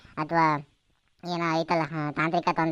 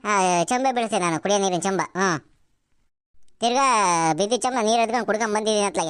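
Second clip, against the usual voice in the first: high-pitched exasperated scolding; acted old woman's cross complaint; annoyed granny; 5 semitones higher than usual. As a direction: grumble at the noisy visitors in a raised pitch. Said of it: "ಸಿಟ್ಟು ಮಾಡ್ಕೋಬೇಡ ಪುಟ್".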